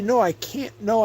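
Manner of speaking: ordinary talk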